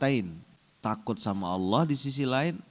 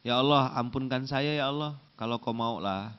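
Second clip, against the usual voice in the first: lazy prayer; 2 semitones lower than usual. Retold or imitated. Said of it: "Enggak boleh gitu".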